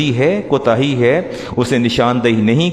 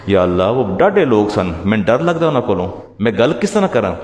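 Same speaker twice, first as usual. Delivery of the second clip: fearful excuse; 3 semitones lower than usual. Retold or imitated. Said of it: "وہ بندہ کہے گا".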